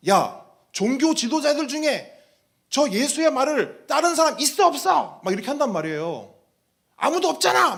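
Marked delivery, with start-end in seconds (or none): 0.1-5.2 mock-stern religious leader. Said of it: "종교 지도자들이 뭐라고 하냐면". 7.0-7.8 higher and louder, a gloating cry; retold triumphant shout. Leaders gloating that no one followed Jesus, shouting. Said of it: "막 이렇게 말한단 말이에요".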